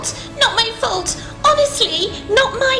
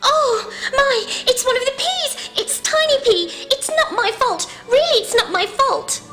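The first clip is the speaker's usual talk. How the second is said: much higher and louder, frantic pleading; panicky denial; 8 dB louder than usual. Acted. Crazy Corn insisting to Broccoli, in frantic high panic. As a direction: babble your innocence in a frantic panic.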